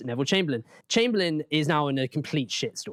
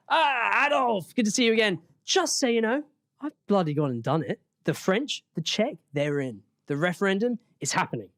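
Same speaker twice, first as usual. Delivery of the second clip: chipper Chamberlain voice; 5 semitones higher than usual. Acted. Narrated Chamberlain quote.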